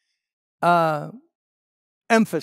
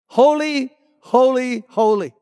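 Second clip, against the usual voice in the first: high opening call, stepping down each time; imitated seraphim cry; 4 semitones higher than usual. Preacher stressing threefold holiness to the congregation, imitated calling out. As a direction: ring it out in three separate proclamations. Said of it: "they're shouting out".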